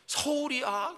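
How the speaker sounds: mother on the phone, thrilled her son is in town; overjoyed squeal. Retold or imitated. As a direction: act out the mother's burst of joy. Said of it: "확 바뀌어요".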